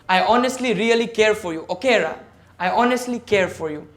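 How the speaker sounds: earnest, genuine reassurance; sincere. Shown as a demonstration. Speaker showing students a sincere way to say I care. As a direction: say it like you truly mean it. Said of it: "because I'm genuine, I am authentic, I'm sincere".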